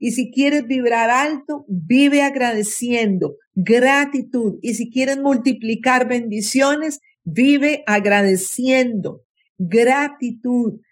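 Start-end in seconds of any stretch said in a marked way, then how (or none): 3.5-4.6 gratitud drawn out slowly, each syllable weighted; solemn emphasis on gratitud. Shown as a demonstration. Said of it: "acá estoy dando una clave esencial". 9.6-10.8 gratitud drawn out slowly, each syllable weighted; solemn emphasis on gratitud. Shown as a demonstration. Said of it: "acá estoy dando una clave esencial".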